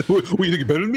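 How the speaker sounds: mock challenge, laughing. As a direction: join the fake fight through a laugh. Echoing the mock fight.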